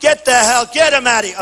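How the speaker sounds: retold rough order to eject someone. Speaker retells ordering a heckler thrown out, rough and forceful. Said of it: "And I was rough".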